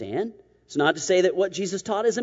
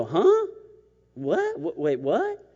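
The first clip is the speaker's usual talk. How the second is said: comic incomprehension; slower than usual. Acted. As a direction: act out stumbling, repeated bewilderment. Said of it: "Nicodemus will not understand it".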